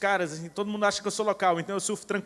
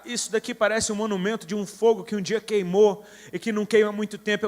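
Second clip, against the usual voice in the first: raised, emphatic prophetic declaration; prophesying; 2 semitones higher, 4 dB louder than usual. Retold or imitated. Preacher recounting his prophecy to an extinct volcano, prophesying loudly. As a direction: proclaim it with a preacher's force. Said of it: "eu comecei a profetizar".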